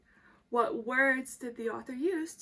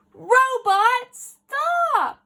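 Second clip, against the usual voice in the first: much higher, louder shouted command; Dad's shout; 12 semitones higher, 16 dB louder, much slower than usual. Acted. Dad yelling at the robot to stop, much higher and louder. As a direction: yell the stop command with the kids. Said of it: "Dad shouted, say it with me".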